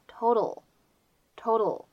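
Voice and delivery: "total" with the middle T flapped; American flap T. Shown as a demonstration. Teacher demonstrating American pronunciation, flapped T in "total". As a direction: tap the middle T of "total" lightly, like a D. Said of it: "非常典型的闪音的处理".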